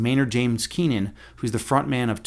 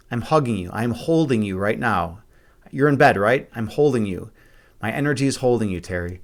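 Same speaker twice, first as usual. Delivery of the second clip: tender; 3 semitones lower than usual. Real, not acted. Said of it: "I hope you felt that warmth and love".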